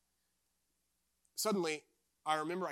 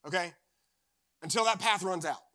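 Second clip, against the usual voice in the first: a hint of a deep Southern accent, a bit louder; 3 semitones higher, 5 dB louder than usual. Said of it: "he had, like, a deep Southern accent".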